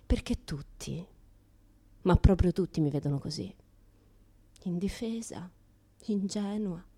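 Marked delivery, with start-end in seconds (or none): 4.6-6.8 breathy mock-helpless whisper. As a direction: whisper it like a defenceless little thing. Acting helpless and defenceless.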